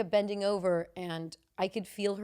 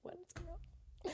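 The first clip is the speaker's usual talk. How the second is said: high, very soft, slow voice; tiny imitation of a baffled woman; mimicked bewilderment; 10 semitones higher, 18 dB quieter, slower than usual. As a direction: squeak it softly in disbelief.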